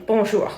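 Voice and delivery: Bonjour, not bon-jor; French bonjour. Shown as a demonstration. Teaching viewers to greet shop staff, French Bonjour. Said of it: "And in French, ideally".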